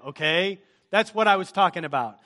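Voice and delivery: mildly frustrated. Retold or imitated. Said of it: "kind of frustrated".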